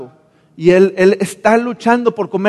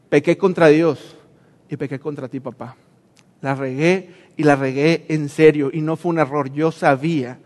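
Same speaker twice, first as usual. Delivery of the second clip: hushed and contrite, dropping to almost nothing at the ends; broken confession; 2 semitones lower than usual. Acted. The son begging his father's mercy, hushed and ashamed. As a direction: speak as if ashamed to look up.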